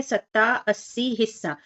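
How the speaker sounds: put-on each word read out separately for children; reading word list aloud. Shown as a demonstration. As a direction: clear word-by-word reading demo. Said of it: "तो पढ़ लेते हैं".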